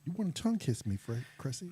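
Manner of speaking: put-on Welsh accent. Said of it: "That's a really good Welsh accent".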